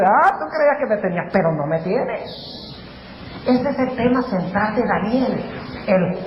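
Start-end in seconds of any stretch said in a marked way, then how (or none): 0.0-2.6 lightly acted calm comeback, dropping low; Dios. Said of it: "él no sabe que Dios tiene una salida".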